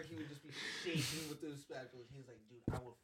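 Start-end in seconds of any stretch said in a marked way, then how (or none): 2.5-3.0 slow, loud threat through laughter; coworker's retold threat said laughing; laughing mock threat. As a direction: threaten while cracking up.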